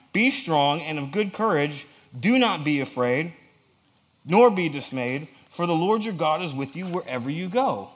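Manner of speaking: slow, deliberate, declamatory command; emphatic scripture reading. Acted. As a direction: drive each phrase home slowly. Reads scripture aloud emphatically.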